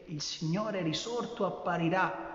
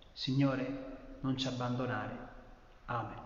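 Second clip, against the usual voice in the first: solemn prayer; 2 semitones lower than usual. Acted. Priest praying to Jesus for the congregation, solemn and hushed.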